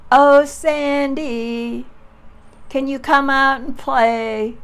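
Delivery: high, loud, drawn-out sing-song call; slow, loud and high, like calling a friend from the yard. Retold or imitated. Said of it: "they would yell".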